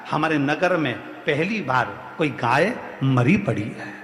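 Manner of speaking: low, halting bad-news delivery; grave report. Woman reports grave news to king.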